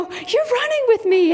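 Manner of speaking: put-on very high, playful talk to a small child; delighted encouragement. Runner to a little boy keeping up, delighted. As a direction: coo it in happy amazement.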